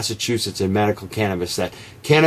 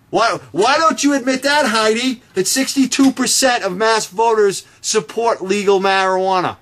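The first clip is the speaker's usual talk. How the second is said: indignant demand; 9 semitones higher than usual. Real, not acted. Confronting Heidi, demanding an admission.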